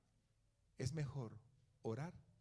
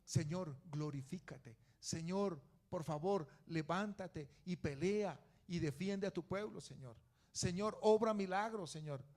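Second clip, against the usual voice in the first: model prayer. Shown as a demonstration. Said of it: "acerquémonos a Dios".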